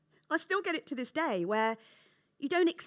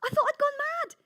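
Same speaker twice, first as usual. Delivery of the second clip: higher, louder disbelief; exasperated; 11 semitones higher, 8 dB louder than usual. Real, not acted. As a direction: cry out that you'd gone mad.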